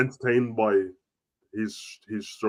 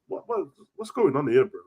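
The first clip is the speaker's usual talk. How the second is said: mock baffled; 5 semitones higher than usual. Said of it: "I'm like, Blood".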